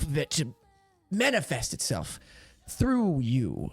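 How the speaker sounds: lightly voiced elderly mystic, low; old magistrate. Old magistrate teaches the paladin blood magic, lightly voiced mystic. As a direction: explain the magic as an aged teacher, sinking at the ends.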